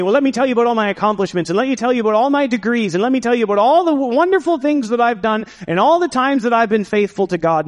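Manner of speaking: mock self-important brag; boastful bragging. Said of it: "don't read your own resume".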